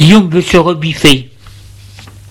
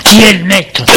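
shout; 3 semitones higher, 3 dB louder than usual. Acted. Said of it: "Son père lui crie".

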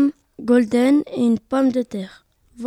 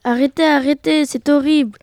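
crying out; 3 semitones higher, 4 dB louder than usual. Acted. Potato begging the cooks to stop, raised horrified cry. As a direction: shout stop in horror, moderately loud. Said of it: "s'écria la pomme de terre".

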